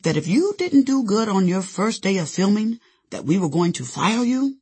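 put-on cute German accent, lightly done; Roland Emmerich. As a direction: tease it out with a hint of German. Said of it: "he asked in his cute German accent".

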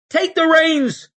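high, loud, slow shout. A narrator's reading. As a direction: bark the order over the noise. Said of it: "she shouted".

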